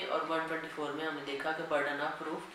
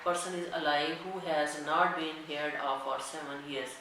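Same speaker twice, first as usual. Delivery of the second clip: dictating a legal section to students at x0.3; slow, deliberate reading of the act; slow statute dictation; much slower than usual. Acted. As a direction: read the law word by word, very slowly. Reads the statute text aloud.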